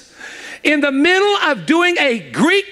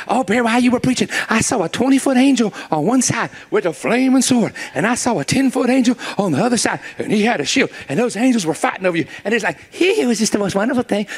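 gushing churchgoer; faster than usual. Retold or imitated. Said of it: "people hear me preach".

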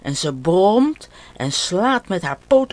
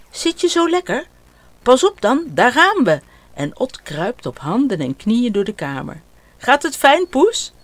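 put-on much higher, louder playful boy's voice; a boy giddy with his horse game; excited child; 6 semitones higher, 5 dB louder than usual. Ot carrying his cat on his back, gleeful.

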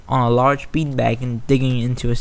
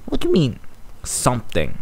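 alarmed; 5 dB quieter than usual. Acted. Alarmed question.

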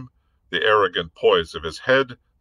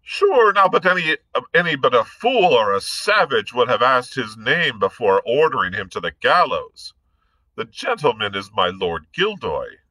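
Irish gentleman; 4 semitones higher, 3 dB louder than usual. Acted. Blood's bold rebuke.

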